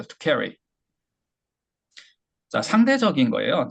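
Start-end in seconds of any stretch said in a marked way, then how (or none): 0.0-0.5 carry에 힘주고 끝을 내리듯; stress on carry. Shown as a demonstration. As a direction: carry 둘째 음절 낮게 떨어뜨리기. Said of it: "carry가 되는 거죠". (carry 강세 시범)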